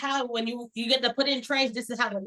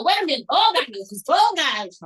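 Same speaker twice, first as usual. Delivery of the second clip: mock panic; 2 semitones higher, 5 dB louder than usual. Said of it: "And then I'm like".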